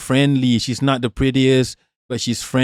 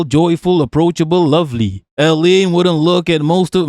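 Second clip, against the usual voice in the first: lightly put-on Yankee reading voice; Yankee accent. Streamer reading out a tweet about two skaters, light Yankee accent. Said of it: "Let me do a Yankee accent".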